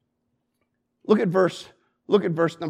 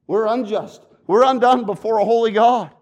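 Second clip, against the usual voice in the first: preaching climax; 3 semitones higher, 8 dB louder than usual. Acted.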